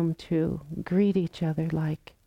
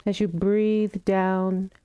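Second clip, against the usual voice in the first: calm, unhurried meditation guidance with long pauses; guided meditation. Real, not acted. Teacher guiding the group into loving kindness practice, calm meditation voice. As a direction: gently invite them to settle, phrase by phrase.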